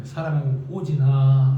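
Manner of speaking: low, slow calling by name; God. Pretend. God calling a beloved believer, low and slow. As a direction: draw the name out in a deep divine voice. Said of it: "하고 부르면".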